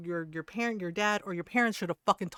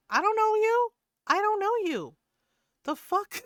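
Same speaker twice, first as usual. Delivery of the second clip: very high, loud mock shriek; mock shrieked snub; 12 semitones higher, 5 dB louder than usual. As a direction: screech it at the weird dude in mock outrage. Acting out snubbing a stranger.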